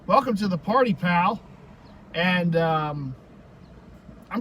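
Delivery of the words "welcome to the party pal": Die Hard movie quote. Retold or imitated. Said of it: "the Die Hard franchise".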